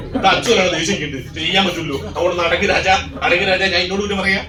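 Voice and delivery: a harried father telling the stranger he is calming himself; exasperated father. Retold or imitated.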